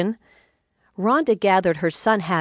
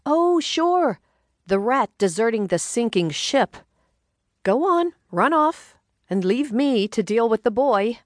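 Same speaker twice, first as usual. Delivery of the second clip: much higher, mock-sulky wife's voice; mock-indignant wife; 5 semitones higher than usual. Wife scolding husband leaving for golf, higher mock-indignant voice. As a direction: scold him as he heads off to golf, pitched up. Narrator voices Rhonda complaining.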